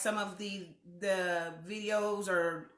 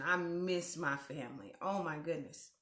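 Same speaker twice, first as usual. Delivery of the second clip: low-energy, softened voice near tears; holding back tears; 3 semitones lower, 5 dB quieter than usual. Real, not acted. Host missing her family in Missouri, trying not to cry. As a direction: let it drop softly, trying not to cry. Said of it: "I'm trying not to cry".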